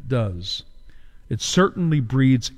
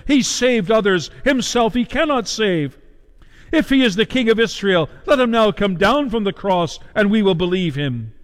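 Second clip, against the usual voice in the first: higher, taunting sneer of the chief priests; mocking; 5 semitones higher than usual. Chief priests taunting Jesus on the cross, mildly mocking. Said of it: "mocking with the scribes and the elders".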